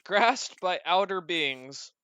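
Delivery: slow, flat robot voice. Acted. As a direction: read it like a ship's computer. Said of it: "a robotic voice".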